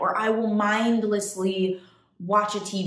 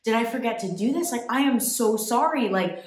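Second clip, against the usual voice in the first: nervous apology; 4 semitones higher, faster than usual. Retold or imitated. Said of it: "I walk up to her and I go".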